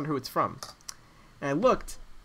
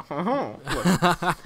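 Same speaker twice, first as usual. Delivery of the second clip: mock interested "huh-huh"; imitated intrigued "huh". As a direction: imitate a friend's approving little hum. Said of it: "tipped his glasses with, like, a".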